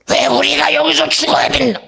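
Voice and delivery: high, loud despairing wail; whining complaint. Acted. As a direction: moan it like you're doomed. Israelites complaining.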